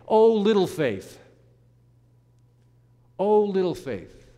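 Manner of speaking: slow, fond pet name; affectionate. Shown as a demonstration. Jesus fondly naming Peter, slow and affectionate. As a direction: linger on it like a loving nickname. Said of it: "in an affectionate sort of way".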